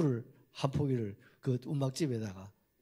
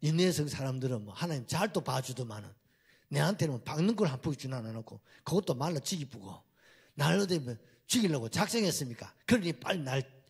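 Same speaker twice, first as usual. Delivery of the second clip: sulky complaint. Retold or imitated. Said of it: "막 또 달라드는 거예요".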